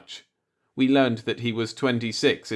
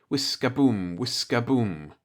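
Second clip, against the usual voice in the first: steady machine rhythm. A narrator's reading. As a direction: let it pulse like a heartbeat machine. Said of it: "settled down to a steady rhythm".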